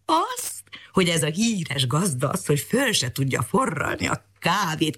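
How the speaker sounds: high, needling cat voice; cat baiting the dog; teasing cat. Acted. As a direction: pick at him, starting high. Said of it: "kötözködött a cica".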